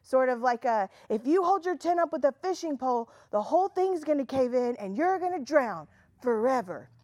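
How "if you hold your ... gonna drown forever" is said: lightly hammed-up threat; threatening preacher. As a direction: imitate a preacher threatening doom. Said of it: "it sounds so threatening".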